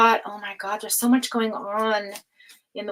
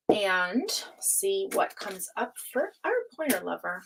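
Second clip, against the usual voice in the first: hushed whisper; 2 semitones lower, 5 dB quieter than usual. Real, not acted. Cutting the tarot deck.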